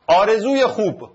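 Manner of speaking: stretched out syllable by syllable. Shown as a demonstration. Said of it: "آ، ر، زو، یه".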